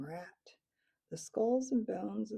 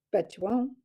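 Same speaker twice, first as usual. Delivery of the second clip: taunting; 8 dB louder than usual. Acted. Taunting bet exchange.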